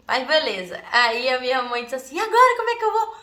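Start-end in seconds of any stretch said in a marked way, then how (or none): 2.2-3.2 imitating mom. Mom wondering how to free them.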